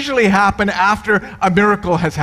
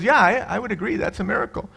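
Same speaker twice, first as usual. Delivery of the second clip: softer, hesitant agreeing; a dazed priest mumbling along; subdued priest; 6 dB quieter, faster than usual. Retold or imitated. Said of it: "And the priest goes".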